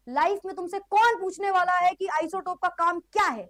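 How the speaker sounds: incredulous scoffing, key words stretched out; mock cool student. Teacher mimics cool people questioning chemistry's use, mock incredulous. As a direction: play the too-cool kid dismissing school subjects. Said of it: "कभी ये वाले लोग तुमसे मिले".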